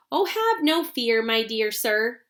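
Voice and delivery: calm reassurance. Acted. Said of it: "said Mister Wonka calmly".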